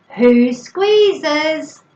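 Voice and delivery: high, loud "Who squeezes?"; routine question. Shown as a demonstration. Parent asking a child in a routine, high playful question. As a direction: ask it big and lifted, drawing out the words. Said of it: "get a routine of going".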